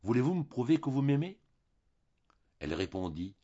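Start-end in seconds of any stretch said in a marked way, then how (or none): 0.0-1.4 higher and louder, as if through her fingers at his mouth; voice muffled by fingers. A narrator's reading. Husband pleading through her fingers held at his lips, muffled. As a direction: speak with her fingers pressed to your lips. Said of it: "la voix changée par ce bâillon de chair".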